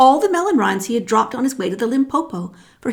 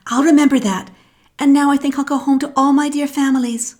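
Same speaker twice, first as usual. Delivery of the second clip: higher, eager little-one voice; a cheerful young elephant heading home; young elephant's child; 5 semitones higher, 4 dB louder than usual. Acted.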